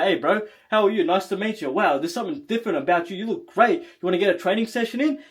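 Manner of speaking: smooth, quick, friendly pitch; confident approach. Shown as a demonstration. Coach showing how to speak to a guy, confident. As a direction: chat them up with easy assurance. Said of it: "you speak like this to a guy".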